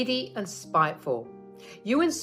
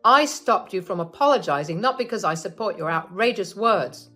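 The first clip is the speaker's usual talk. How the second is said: louder cold condemnation; angry son; 6 dB louder than usual. Acted. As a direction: tell your mother she is vile. Son condemns his mother.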